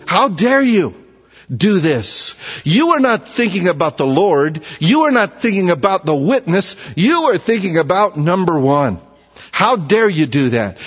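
imitating an exasperated scolding, only lightly heated; a touch of indignant reproach in a retold rebuke; mild frustration. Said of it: "Paul is really, uh, a little bit, uh, frustrated here".

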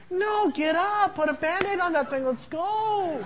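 toughen him up, jokingly; brusque dad. Retold or imitated. Dad telling crying son to get up, mock brusque. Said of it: "I'm telling him to stop crying".

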